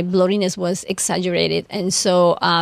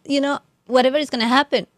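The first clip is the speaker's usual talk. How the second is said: emotional, voice rising; 4 semitones higher than usual. Real, not acted. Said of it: "I'm getting emotional".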